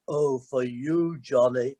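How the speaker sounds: Imran's voice. Retold or imitated. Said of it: "I can't do his voice, really".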